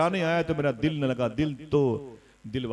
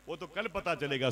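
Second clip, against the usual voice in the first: softer, slightly raised confiding tone; secret aside; 5 semitones higher, 6 dB quieter than usual. A narrator's reading. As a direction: say it quietly, as if into mother's ear. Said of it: "चुपके से अपनी माँ के कान में कहा". (चुपके से कान में कही बात)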